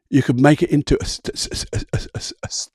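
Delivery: repeating s-, s-, a, a before the word; mock stutter demo. Shown as a demonstration. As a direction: stammer on the sounds on purpose.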